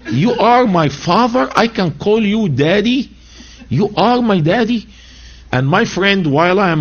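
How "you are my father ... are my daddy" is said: mocking the prayer. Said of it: "mocking this prayer".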